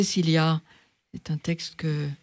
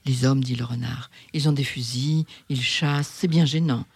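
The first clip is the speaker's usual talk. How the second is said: lightly voiced fox. The fox questioning the little prince, lightly voiced. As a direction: play the fox sizing up the stranger.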